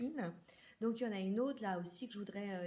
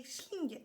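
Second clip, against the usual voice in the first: higher-pitched "schling" for a quick dash; a quick spoken zip noise; whooshing sound effect; 4 semitones higher than usual. Retold or imitated. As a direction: imitate a cat shooting through the door. Imitates cat darting through opened door.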